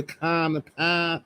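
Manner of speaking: slow mock Boston accent; put-on Boston accent. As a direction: stretch it out in broad Boston. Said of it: "I don't hear a Boston accent".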